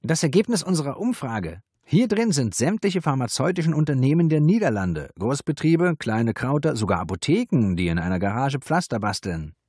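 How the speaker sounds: proud, high-pitched announcement; triumphant. A narrator's reading. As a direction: present your findings with triumph. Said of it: "Triumphierend hielt Ricard".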